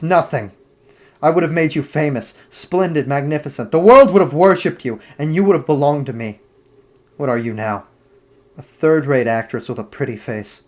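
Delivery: a lightly voiced young man turning on his lover, scornful; cold, bitter dismissal that flares up in the middle; Dorian's cold rejection. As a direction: narrator lightly playing a cruel lover, contempt rising.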